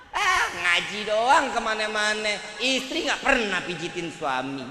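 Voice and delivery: slow, loud, whining complaint; mock a nagging wife's moan; a lightly whining nagging wife; whiny nagging wife.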